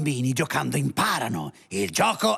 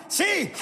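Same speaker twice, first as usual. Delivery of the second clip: gleeful high cackling laugh; high cackle. Acted. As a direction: cackle with delight after the yes. Alien gloats triumphantly.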